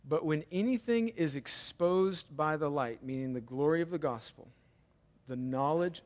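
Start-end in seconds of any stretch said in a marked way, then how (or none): 0.1-3.0 measured verse reading, weighing each phrase; deliberate reading. Shown as a demonstration. Preacher rereading the verse for congregation to consider, deliberately. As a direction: read it out carefully, word by word. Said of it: "we gotta read it slowly now".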